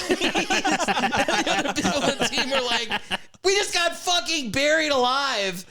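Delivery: high voice breaking into laughter; laughing retelling. Retold or imitated. Telling friends about the buried teammates, high and laughing. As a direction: laugh your way through the line.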